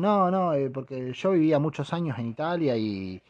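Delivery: hammy Italian-Spanish show-off; mock Italian. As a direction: wave your hands like a fake Italian. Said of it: "Entonces dicen".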